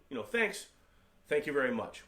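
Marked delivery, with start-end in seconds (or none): 0.2-0.7 quick, high, breezy "Thanks"; casual thanks. Shown as a demonstration. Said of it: "Both mean thank you". 1.3-2.0 formal thanks. Shown as a demonstration. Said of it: "One is more formal".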